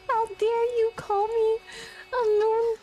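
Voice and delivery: lightly put-on character voice; a touch of mock indignation in character; Paimon. Streamer protesting being called a squirrel, in a light Paimon voice. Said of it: "supposed to be a Paimon voice".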